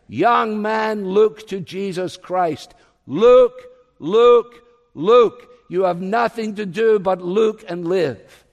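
loud, high pulpit shout in imitation; ringing shouted exhortation, each command punched out; imitating preacher's shout. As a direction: shout it like a fervent Methodist preacher. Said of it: "he shouted at the top of his voice".

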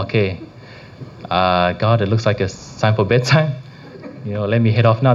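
lightly acted nodding-off prayer, low at first; mock drowsy prayer. Praying in bed before signing off, mildly acted drowsiness. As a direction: pray as if half-heartedly fighting sleep. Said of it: "my head starts nodding".

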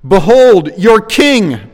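loud, high, scornful announcement; ringing, contemptuous declaration; scornful proclamation. A narrator's reading. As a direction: present him to the crowd with open scorn. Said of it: "He said to the Jews scornfully".

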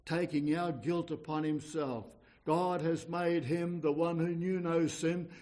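ordinary talk, nothing marked

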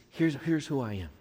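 softly acted humble prayer; understated, lowly plea; humble confession. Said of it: "He comes humbly".

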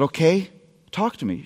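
soft, low, fast comforting dad; a father soothing his daughter at night; tender reassurance. Retold or imitated. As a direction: coax her gently to open up. Dad invites daughter to talk.

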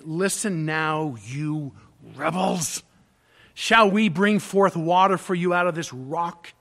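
slow, exasperated rebuke that bursts loud at the end; a leader at the end of his patience, snapping; fed-up prophet scolding the people, voice rising; losing it. Retold or imitated. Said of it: "Moses is losing it".

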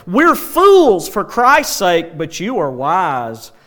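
mildly mock their grandeur, punching each opening; Paul's sarcasm. Paul contrasting himself with proud Corinthians, mildly sarcastic. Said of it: "the sarcasm that Paul can use".

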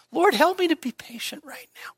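high, pleading plea to the Lord; pleading prayer. Acted. Preacher acting out a prayer for patience, pleading high. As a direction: cry out to God for patience.

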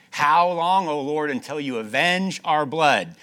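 loud, high plea to God; crying out. Acted. Preacher voices God's people crying to the Lord, loud. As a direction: call out for justice.

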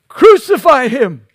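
loud mob cry, pitched high; mob shout. Retold or imitated. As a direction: shout it like an angry crowd. Mob crying out against Christ.

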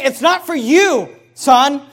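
a mother pleading slowly with her son; mother's warning. Retold or imitated. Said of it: "She's saying".

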